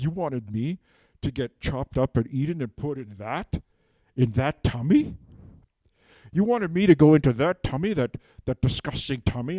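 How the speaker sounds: mildly outraged, rising questions; indignant cow. Acted. Cow confronting the man who would eat it, indignant.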